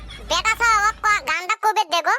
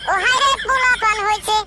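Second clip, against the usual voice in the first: laughing. Real, not acted. Laughing reaction to the song.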